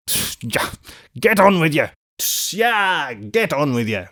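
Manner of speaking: sharp hiss, then a high cry; urging horses on. A narrator's reading. Coachman to his tired horses, urging them on. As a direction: drive the team on with hisses and cries.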